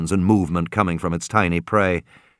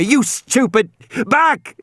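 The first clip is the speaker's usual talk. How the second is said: lion tamer shout; 13 semitones higher, slower than usual. A narrator's reading. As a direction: crack each word like a whip at the beast. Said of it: "he shouted like a lion tamer".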